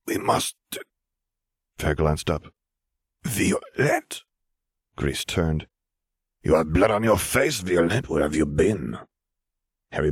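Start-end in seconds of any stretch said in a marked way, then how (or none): 0.1-4.2 a lightly voiced old wizard, hushed then calling; lightly voiced wizard calling out in surprise; voice of Fer. 6.4-9.0 lightly voiced stern wizard, concerned; a hint of a stern wizard asking where she has been; voice of Gris.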